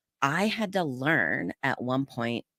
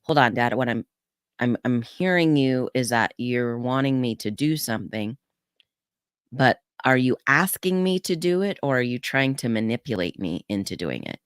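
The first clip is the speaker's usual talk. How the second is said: calm, non-judging voice. Retold or imitated. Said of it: "It wasn't a shame or blame voice".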